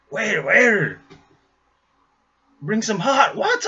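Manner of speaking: loud, high call across the room; shouting for the waiter. Retold or imitated. Bruce shouting to the waiter. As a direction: yell for the waiter with a laugh.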